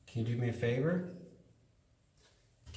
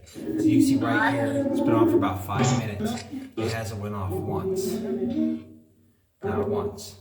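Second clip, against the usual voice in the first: nervous night vlog whisper; 6 dB louder than usual. Real, not acted. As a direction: whisper it so nothing hears you.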